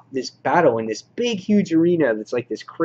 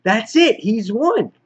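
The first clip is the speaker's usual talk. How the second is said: much higher, louder hammed-up dismay; mock panicked villain; 9 semitones higher, 4 dB louder, slower than usual. Reviewer voices the villain realizing he's lost, hammed-up dismay. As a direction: blurt it out as a cartoon villain caught off guard. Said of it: "And he's like".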